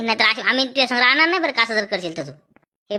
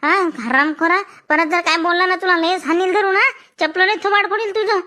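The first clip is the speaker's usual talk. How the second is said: put-on angry girl's tirade; 5 semitones higher than usual. Schoolgirl scolding the boy who proposed, higher and furious. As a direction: tear into him like an offended girl.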